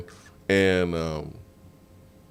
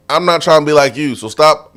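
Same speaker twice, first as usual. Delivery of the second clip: a touch of a high, louder retort; mild retold scolding; 6 semitones higher, 5 dB louder than usual. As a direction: tell him off, half-joking. Retorting to the pushy fan.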